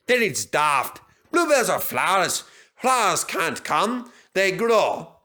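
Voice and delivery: a hint of a cross old engine; stubborn engine, slow and firm; gruff engine retort. A narrator's reading. Douglas retorts, character voice.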